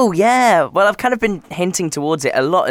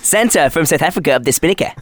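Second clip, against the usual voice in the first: South African accent. Shown as a demonstration. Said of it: "Say it quickly. In a South African accent".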